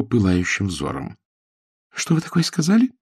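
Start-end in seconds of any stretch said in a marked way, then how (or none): 1.9-2.9 indignant. A narrator's reading. Furious girl challenges.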